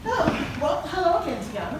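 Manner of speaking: high, loud gushing greeting; bursting with over-the-top delight; big excited hello. Acted. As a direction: greet her like a long-lost friend. Counselor greets client with big enthusiasm.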